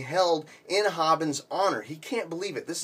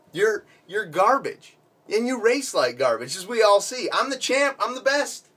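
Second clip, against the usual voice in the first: louder, higher bragging taunt; gloating winner; 4 semitones higher, 4 dB louder than usual. Acted. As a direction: rub it in like a sore winner. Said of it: "just as bad a winner".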